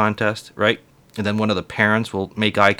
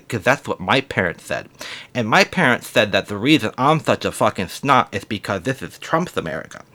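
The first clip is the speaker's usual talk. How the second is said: put-on bratty kid voice.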